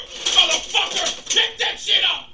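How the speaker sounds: drawn-out curse at the cord; fed up. Real, not acted. Vlogger cursing the broken power cord, slow and annoyed.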